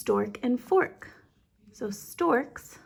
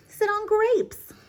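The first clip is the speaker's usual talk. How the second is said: cat voice; 11 semitones higher, 5 dB louder, slower than usual. Acted. Cat's list read aloud.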